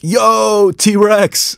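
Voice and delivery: high, loud call-out; mock yell. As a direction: yell it out as a warning to the tribe. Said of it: "wouldn't they just yell".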